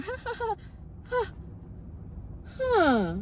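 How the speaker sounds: high, breathy burst of retold laughter; laughing. Recalling a teacher's weird story, laughing at it. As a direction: laugh it off in disbelief. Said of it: "laughing and be like".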